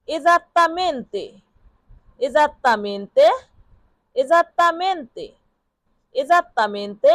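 Esattamente drawn out syllable by syllable, very slow; slow pronunciation model. Shown as a demonstration. Teacher to students, modelling the Italian word very slowly. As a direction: stretch every syllable of esattamente so students can copy it. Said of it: "একদম ঠিক এর Italian অর্থ হবে".

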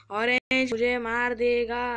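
loud, drawn-out mock panic; hammed-up cry of impending doom; playful alarm. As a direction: wail it loudly and slowly. Alarm at being killed in game.

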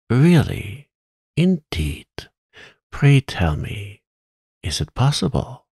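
high, slow prim little voice; high puppet voice. Acted. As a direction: squeak out polite surprise. Scarecrow's attentive replies.

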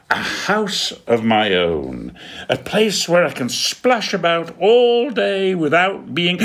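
high, loud, gleeful little penguin; squeaky happy penguin voice; excited penguin Dudley. Acted. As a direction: bounce with joy over his own house. Dudley splashing in bath.

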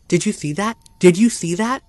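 a hammed-up scream of alarm; read-aloud panicky yell, climbing. A narrator's reading. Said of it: "Then Ralph screamed".

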